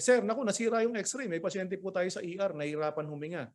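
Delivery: lightly acted urgent plea to the doctor; urgent report to doctor. Junior reporting an ER patient to Sir, lightly acted urgency.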